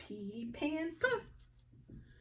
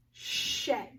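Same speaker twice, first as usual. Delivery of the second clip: unvoiced word. Shown as a demonstration. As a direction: say shed almost without voice. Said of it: "Let's tap it out together".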